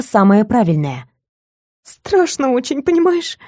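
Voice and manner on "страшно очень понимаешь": frightened whimper. A narrator's reading. Captive telling kidnapper she is scared, frightened plea. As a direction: confess fear, asking for pity.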